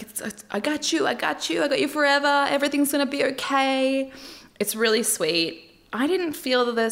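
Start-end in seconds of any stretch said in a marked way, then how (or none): 0.0-4.1 high-pitched imitation of a man soothing his partner; comforting fiancé. Man to his sobbing fiancée who said yes, mock comforting. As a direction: gush repeated reassurances in a raised voice. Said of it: "between her sobs. And he's like".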